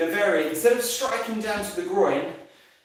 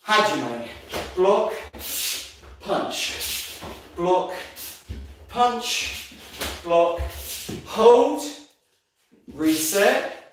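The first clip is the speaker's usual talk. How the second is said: shouted commands; much slower than usual. Real, not acted. Instructor calling kata moves.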